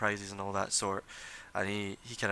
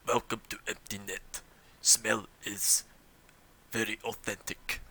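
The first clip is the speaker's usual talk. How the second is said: lightly voiced dry barkeep, softer; a hint of a sardonic innkeeper; barkeep's deadpan; 3 dB quieter than usual. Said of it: "Creb behind the bar goes".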